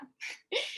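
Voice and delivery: short voiceless chuckle; soft breathy laugh. Retold or imitated. Retelling her laughing reply to the gringo, soft chuckle. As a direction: let a quiet laugh slip out. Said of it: "Y yo riéndome le digo".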